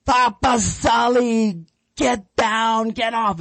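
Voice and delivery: high-pitched mock yell at the puppy, slow on the name; imitating wife yelling. Imitating his novice wife yelling at the puppy, high mock yell. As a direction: call the puppy off in a high, shrill-free mock shout. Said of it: "she's yelling at the dogs".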